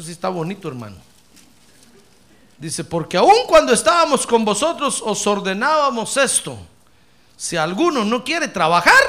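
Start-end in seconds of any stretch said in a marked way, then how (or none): 2.8-9.0 loud scripture reading. Real, not acted. Pastor reads verse aloud.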